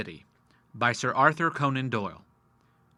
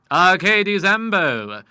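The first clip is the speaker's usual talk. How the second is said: slow; 6 semitones higher, 9 dB louder, much slower than usual. A narrator's reading. Lawyer quoting Latin.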